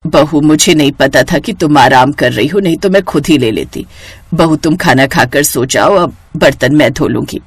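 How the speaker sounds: a hint of a patient old mother-in-law. Narrator voices the mother-in-law. (धीमी, नरम बुज़ुर्ग सास की आवाज़)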